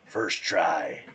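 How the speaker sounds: lightly growled cartoon superhero; Lego Batman. Quoting a Lego movie hero, gruff voice. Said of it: "What is the Lego Batman?".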